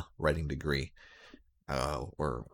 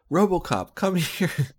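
much higher and louder summons; calling out; 11 semitones higher, 5 dB louder than usual. Acted. Commissioner summons RoboCop from the back, calling loudly. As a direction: bellow for him to come out.

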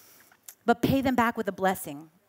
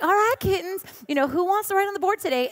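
higher, lilting teacher greeting the kittens; teacher greeting her pupils, higher; sweet teacher; 8 semitones higher than usual. Retold or imitated. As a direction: imitate the sweet teacher calling her class.

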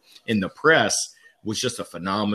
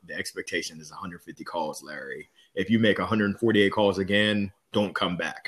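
stern boss; 3 semitones lower, 4 dB quieter than usual. Retold or imitated. Retelling the stern manager.

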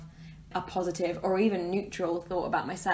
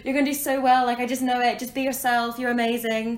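hype cheerleader; 5 semitones higher, 4 dB louder than usual. Retold or imitated. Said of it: "you'll be like".

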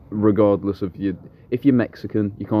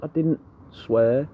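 high, drawn-out mock protest; protesting innocence; 6 semitones higher, much slower than usual. Teen denying swearing to granddad, drawn-out high protest. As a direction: stretch it out slowly, pitched up, retelling a denial.

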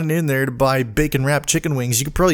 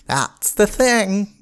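mocking entitled drivers; 8 semitones higher, slower than usual. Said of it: "now they".

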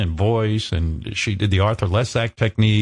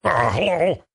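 nervous high voice; 4 semitones higher than usual. Retold or imitated. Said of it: "high-pitch Eric trying to force".

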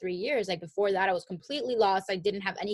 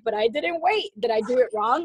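worried self; 2 semitones higher, 6 dB louder than usual. Retold or imitated. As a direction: ask it nervously. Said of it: "I'm like".

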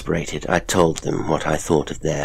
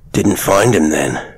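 slow, dry, mocking and louder; sardonic; 5 dB louder, slower than usual. Father mocking the shaken woman, sardonic. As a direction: needle her with dry scorn. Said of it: "said the father, sardonically".

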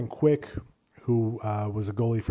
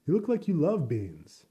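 coworker quote; 5 semitones higher than usual. Retold or imitated. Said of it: "a coworker was like".

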